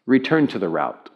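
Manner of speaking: understated navigation prompt; lightly voiced, even-toned satnav; Siri GPS voice. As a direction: give it as a calm automated instruction. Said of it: "started to say it like this to me".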